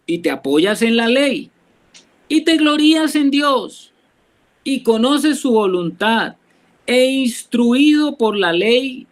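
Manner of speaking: measured Bible reading, phrase by phrase with pauses; scripture reading. Acted. Preacher reading Romans to the brethren, deliberate scripture reading. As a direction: read the verse out deliberately, pausing after each phrase. Reads the verse aloud to the group.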